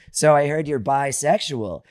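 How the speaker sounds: slow, deliberate mock-theatrical question; John Lovitz. Comic imitating the headliner questioning him, lightly voiced, deliberate. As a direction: draw out every word of the punchline. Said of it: "and then he goes".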